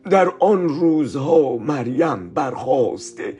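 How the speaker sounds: slow, solemn Bible reading; scripture reading. Acted. Teacher reading Luke to the children, slow and solemn. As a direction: read the verse slowly and reverently.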